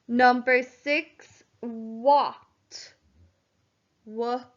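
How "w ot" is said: "W-ot" split in two, W then a short open "ot"; sounding out the word. Shown as a demonstration. Teacher sounding out "W-ot" for her pupils. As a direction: break "W-ot" into its sounds for the class. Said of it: "The a is making the ah sound here".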